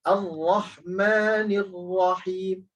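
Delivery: Ar-Rahmanir Rahim slow, ra pressed, no doubled h; stress on ra. Shown as a demonstration. Teacher showing stress on ra for the class. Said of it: "Jadi tekan pada ra".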